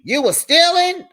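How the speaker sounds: shocked question. Retold or imitated. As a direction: gasp it out in disbelief. Dad shocked at robbery answer.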